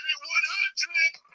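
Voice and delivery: one hundred sung out very high and slow; stretched falsetto. Shown as a demonstration. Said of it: "being sincere".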